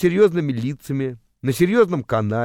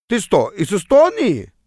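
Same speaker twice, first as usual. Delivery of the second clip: slow, higher-pitched mock Estonian accent; 6 semitones higher, 3 dB louder, slower than usual. Teller answers his new bus neighbour in mock Estonian accent. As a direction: put on a drawling Estonian accent, raised in pitch. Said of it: "С таким же акцентом решил ответить я".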